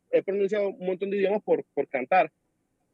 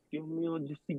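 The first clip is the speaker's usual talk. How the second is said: much softer, muttered aside; retold exasperation; 3 semitones lower, 13 dB quieter than usual. Bored student hearing repeated lessons, muttered exasperation. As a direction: mutter it as if to yourself. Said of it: "yo quedaba así".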